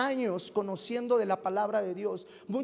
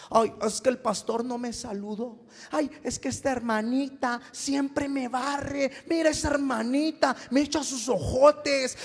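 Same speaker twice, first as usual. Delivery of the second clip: whiny immature believer. Retold or imitated. Pastor mocking immature Christians, whiny mock voice. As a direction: whine like a spoiled churchgoer. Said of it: "se comportan como niños, como bebés".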